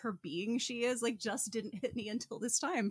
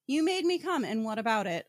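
mock defiant retort; 4 dB louder than usual. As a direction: throw it back at him, chin up. Acting out Christine's retort.

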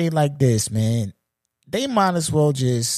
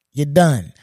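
louder final verdict; 6 dB louder than usual. Real, not acted.

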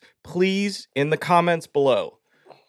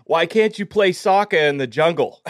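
lightly put-on Boston accent; 5 semitones higher than usual. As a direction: joke told in a hammy Boston accent. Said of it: "doing the Boston accent".

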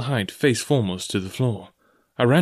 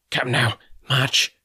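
slow, cold, cruel order; cruel cold command; 3 semitones higher, slower than usual. A narrator's reading. Blind beggar cutting off the boy, cold and cruel. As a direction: cut him off coldly. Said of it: "a voice so cruel and cold".

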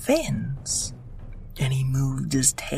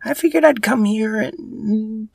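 put-on high cheeky girl voice, louder; breezy little sister, pitched up; Leah voice; 8 semitones higher, 5 dB louder than usual.

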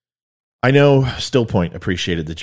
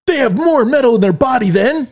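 laughing through it, much higher and louder; 14 semitones higher, 6 dB louder than usual. Real, not acted. Dad setting the quiz for his daughter, laughing. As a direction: giggle through the setup. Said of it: "quiz set up for daughter".

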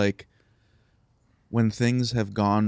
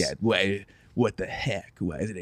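sad voice. Pretend. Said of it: "Is that your sad voice that you use?".

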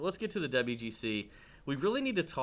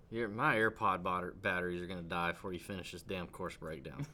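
laughing; 3 semitones lower than usual. Real, not acted. Teasing a long-winded cohost.

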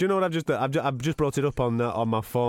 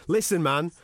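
agitated retold complaint, pitched higher; retold angry rant; 4 semitones higher than usual. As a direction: imitate an exasperated colleague ranting on the phone. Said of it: "absolutely going apeshit, bollocking me".

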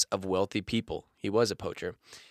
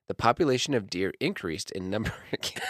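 laughing; 5 semitones lower, 6 dB quieter than usual. Real, not acted. Read while cracking up.

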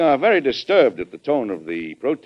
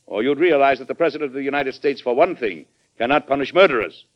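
raised, forceful correction; firm rebuttal; 5 semitones higher, 4 dB louder than usual. Acted. President setting the ambassador straight on his powers, firm rebuttal. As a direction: contradict him firmly and formally.

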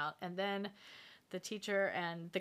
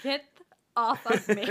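loud sharp voice; 4 semitones higher, 11 dB louder than usual. Pretend. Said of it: "I'd be like".

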